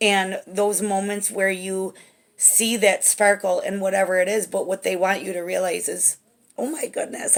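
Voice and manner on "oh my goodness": emotional, overcome, whispered gasp. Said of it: "I'm, like, emotional here".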